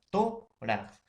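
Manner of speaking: "tórax" with a high, long "tó"; stress on TÓ. Shown as a demonstration. Teacher showing the word that keeps its intensity, high held "tó" in "tórax". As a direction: hold "tó" up high, then drop on "rax". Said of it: "va a seguir con su intensidad".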